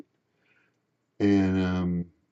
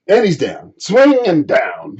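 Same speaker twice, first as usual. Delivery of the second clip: playful mimicry; 8 semitones higher, 5 dB louder, slower than usual. Mimicking his swinging and falling.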